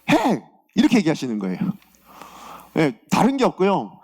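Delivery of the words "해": short, high-pitched command as God; abrupt imperative, acted as God; God's command. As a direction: voice God giving a curt order. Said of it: "하나님께서 뭐라고 말씀하시냐면".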